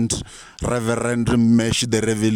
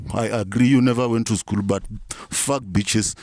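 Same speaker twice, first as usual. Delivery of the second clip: put-on Nigerian accent; 2 semitones higher than usual. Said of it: "talk like I'm from Nigeria".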